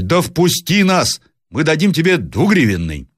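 high-pitched calling plea; shouting. A narrator's reading. Traveller offers coins to be let in, shouting. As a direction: call out insistently from outside. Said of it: "закричал опять проезжий".

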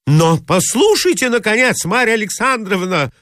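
protest, thrown off balance; baffled outcry. Acted. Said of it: "вскричал озадаченный Мозгляков". (растерянный, громкий возглас)

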